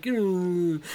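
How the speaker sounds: imitated pouty little hum; sulky mock "mm". Imitating a boyfriend gone all pouty at being told no, pouty. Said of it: "he got all pouty".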